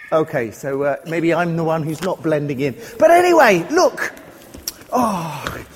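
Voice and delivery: a lightly voiced frightened farmer, hushed then complaining; hiding Israelite in a cave. Speaker playing Gideon to children, worried and hushed. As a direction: play the worried hider telling the kids his woes.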